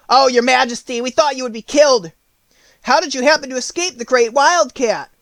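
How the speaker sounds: high, loud worried mouse chorus; relieved little mice rushing to their queen; excited exclamation. Acted. The mice exclaim in high excitement to their queen. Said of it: "they exclaimed".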